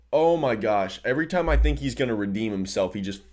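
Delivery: worked-up fan losing patience; heated exasperation. Real, not acted. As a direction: vent in real frustration, rushing the words. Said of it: "I'm really heated right now".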